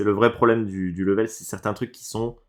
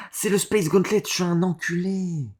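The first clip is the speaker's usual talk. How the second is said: exasperated realisation; 9 semitones higher than usual. Real, not acted. Gamer realising he mixed up the gauntlets, high exasperated wail. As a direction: wail it high as the mistake dawns on you. Sudden realisation of his own mistake.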